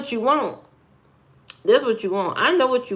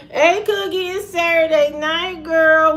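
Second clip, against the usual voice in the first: pitched up, but well short of falsetto; same greeting, only moderately higher; raised voice; 7 semitones higher than usual. Shown as a demonstration. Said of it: "you'll never hear a voice like this".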